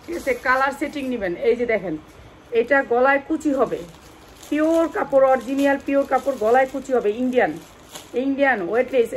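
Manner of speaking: loud pushy sales pitch; hard sell ad. Acted. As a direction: sell it hard to the live viewers. Live sale pitch, loud.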